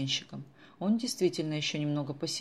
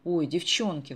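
louder bright exclamation; exclaiming; 5 dB louder, slower than usual. Acted. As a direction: call out struck by an idea. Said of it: "воскликнула Даша". (радостный возглас)

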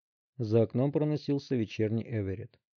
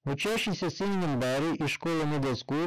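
higher, distant voice over radio; radio dispatcher; 5 semitones higher than usual. A narrator's reading. Dispatcher reporting the address over the radio.

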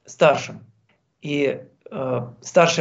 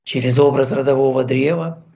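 calm, even meditation voice with long pauses; guided meditation. Acted. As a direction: gently guide the listener inward.

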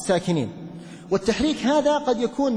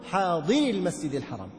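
حاضر pressed at its end, set off from المسجد; stress on حاضر; 3 semitones lower, 4 dB quieter than usual. Shown as a demonstration. Teacher shows the nabr on حاضر in joined reading. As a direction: lean on حاضر before المسجد. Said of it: "ننبر".

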